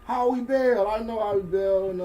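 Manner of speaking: loud, high name callout; radio announcer voice. Pretend. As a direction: shout out the headliner. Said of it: "since you got the radio voice".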